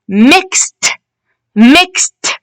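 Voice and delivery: teacher's careful "mixed", ending on t; final t sound. Shown as a demonstration. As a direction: say "mixed" with ed as a separate, audible t. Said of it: "The t".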